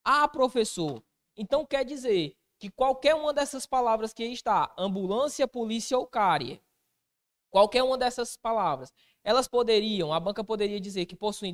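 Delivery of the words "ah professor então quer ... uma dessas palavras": higher, louder eager student voice; a student voiced by the teacher; student asking. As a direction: play a puzzled pupil objecting to the teacher.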